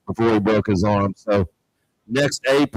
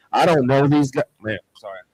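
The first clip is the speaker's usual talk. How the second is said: choked up; 3 semitones higher than usual. Real, not acted. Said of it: "I got emotional".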